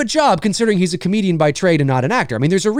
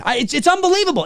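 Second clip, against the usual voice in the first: mock amazement; 11 semitones higher, faster than usual.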